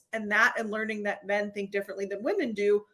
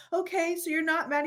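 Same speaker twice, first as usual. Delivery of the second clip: anxious question; 8 semitones higher than usual. Retold or imitated. Anxious check with husband.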